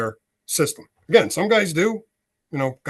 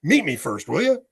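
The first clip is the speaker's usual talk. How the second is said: exasperated protest; 6 semitones higher, 4 dB louder, faster than usual. Retold or imitated. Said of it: "retold phone quarrel".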